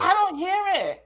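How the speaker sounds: high-pitched disbelief; baffled protest. Real, not acted. Guest denies hearing her accent, baffled protest. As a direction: protest with the pitch pushed right up.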